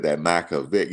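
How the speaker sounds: "Micah Vick" with a light country twang; country pronunciation. Retold or imitated. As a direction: say "Micah Vick" country-style, Michael cut down to Micah. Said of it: "That's how he said it".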